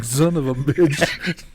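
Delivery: lightly mocked, drawn-out grumble; imagined listener's cursing. Host imagining the animal dealer listening, mock dismay. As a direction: stretch the curse out in mock exasperation. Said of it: "Rick's listening to this going".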